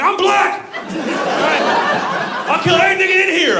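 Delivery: put-on high, loud indignant kid yell; angry outburst. Little son firing back at his older brother, angry outburst.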